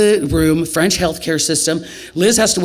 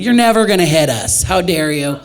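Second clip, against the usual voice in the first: trash talk; 3 semitones higher, 3 dB louder than usual. Retold or imitated. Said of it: "talking some smack about it".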